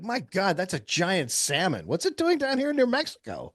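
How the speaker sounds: high, loud amazed cry; shocked passerby. Pretend. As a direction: gasp at the giant salmon. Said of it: "people be like".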